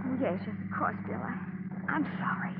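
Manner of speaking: timid whisper. Acted. Mona shrinks back after being scolded.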